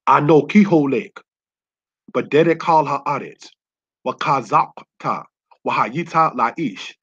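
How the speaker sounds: slow, deliberate Hebrew read out word by word; careful Hebrew reading of the verse; Hebrew recitation. Shown as a demonstration. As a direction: sound out "Wakazakta, Wahayita Laish" slowly, syllable by syllable. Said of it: "the words that you see there in the Hebrew".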